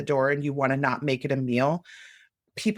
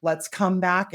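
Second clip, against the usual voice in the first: a light, gently raised coaxing tone; gentle parental voice; 3 semitones higher than usual. Shown as a demonstration. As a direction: call the part home kindly. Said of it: "that's the voice we wanna use".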